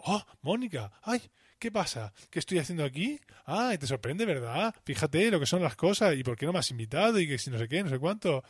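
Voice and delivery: high, chirpy fake greeting; gushing cousin.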